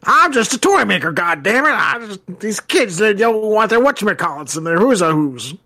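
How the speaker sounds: put-on old toymaker voice. Voicing old toymaker Joe Petto.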